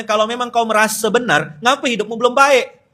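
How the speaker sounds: high and loud, every word pressed hard; loud quote. Retold or imitated. Quoting the harsh line from the book, loud and high. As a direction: read it out like a painful slap. Reading the painful book sentence.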